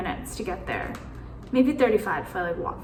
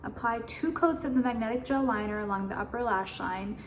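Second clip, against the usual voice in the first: softer, even read-aloud of instructions; reading directions; 5 dB quieter than usual. Real, not acted. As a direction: read the label out quietly to yourself. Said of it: "Let me read their directions".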